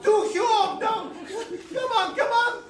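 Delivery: excited urging. Acted. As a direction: hurry them on eagerly. Father urging couple, excited.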